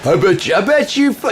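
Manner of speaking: high, loud mangled troll voice; mock troll voice. Imitating the next troll stepping up, high mock voice. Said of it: "the next guy steps up".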